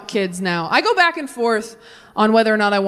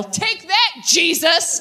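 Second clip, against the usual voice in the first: mock triumphant yell; 5 semitones higher, much slower than usual. Mock orgasm yell at Jesus.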